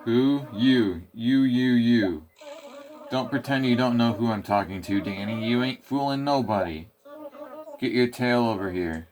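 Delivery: lightly voiced cranky mole calling out; grumpy mole. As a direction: bark at the player like a cranky mole. Grumpy mole stops the player.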